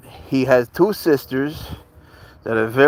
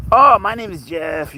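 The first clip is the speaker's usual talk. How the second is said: slow, higher put-on movie-line voice; hammed-up quote, drawn out and raised; Jump Street movie quote; 7 semitones higher, 4 dB louder than usual. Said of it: "It's a classic Jump Street movie quote".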